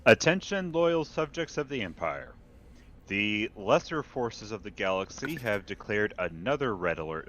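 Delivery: lightly voiced grand imperial announcer; imperial herald proclamation. Reads the news as imperial herald.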